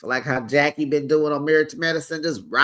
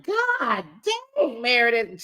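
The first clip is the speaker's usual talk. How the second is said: exasperated; 6 semitones higher, slower than usual. Real, not acted. Exasperated outburst at Meredith.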